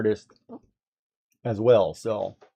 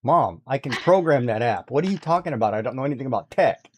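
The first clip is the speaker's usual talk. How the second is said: quick, disbelieving echo of her words; incredulous retort. Retold or imitated. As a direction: throw her claim back at her, fast. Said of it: "I'm like".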